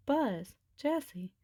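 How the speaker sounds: shouting. Acted. Woody calling to his friends as he runs up, shouting. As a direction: call out while running up. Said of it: "Woody shouted".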